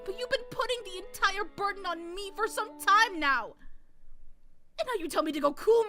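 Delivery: upset wife pleading. Acted. Natsuhi confronting husband.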